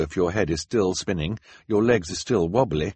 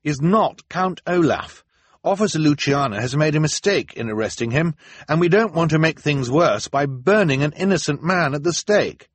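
Klaus defending; 9 semitones higher, 5 dB louder than usual. A narrator's reading. Klaus defending Jacques before the council, firm. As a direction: defend the innocent man. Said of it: "he said".

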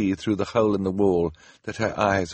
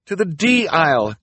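high loud shout; calling out; 8 semitones higher, 6 dB louder than usual. Acted. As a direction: shout directions over the noise. Klaus shouting over crashing cabinets.

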